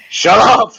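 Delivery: high, loud laughing shout. Real, not acted. Cohost shrieking at his teasing friend, high and laughing.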